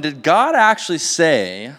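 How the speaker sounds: slow, insinuating question, rising on God; doubting serpent inflection. Retold or imitated. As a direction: plant a seed of doubt, sly and drawn out. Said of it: "notice, like, the inflection in my voice".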